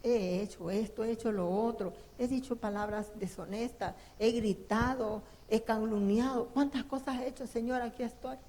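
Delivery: prayer. Acted. Confession prayer before God.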